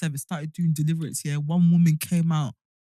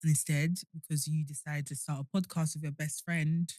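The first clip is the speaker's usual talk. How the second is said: hungover; 4 dB quieter than usual. Real, not acted. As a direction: drag through it, hungover. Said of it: "I am hungover".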